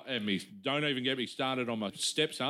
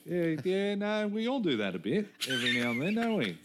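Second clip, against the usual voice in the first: own awkward reply; 7 semitones higher than usual. Retold or imitated. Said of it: "and going".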